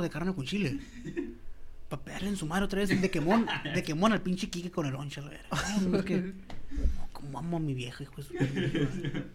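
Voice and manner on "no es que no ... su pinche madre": slow, soft mock tender boast; a hint of a doting old husband; softer, slower voice for the husband's boast; lightly voiced old man. Voicing don Chilo's tender boast.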